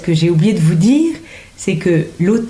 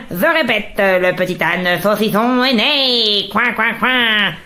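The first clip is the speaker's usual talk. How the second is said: duck voice. Acted. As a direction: drag the duck's announcement out. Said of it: "J'aime bien faire le canard".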